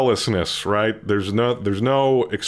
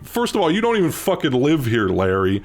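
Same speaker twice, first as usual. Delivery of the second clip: high, raised voice, heated and rising at Larry; heated yelling; 6 semitones higher than usual. Retold or imitated. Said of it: "It was getting absolutely heated".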